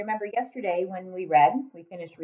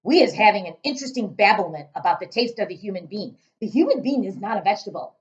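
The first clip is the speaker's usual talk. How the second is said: loud booming giant; 2 semitones higher, 7 dB louder, faster than usual. Acted. Giant lecturing Sophie, booming voice.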